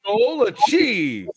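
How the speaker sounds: slow, high, grand declaration; triumphant announcement. Pretend. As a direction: announce the win proudly.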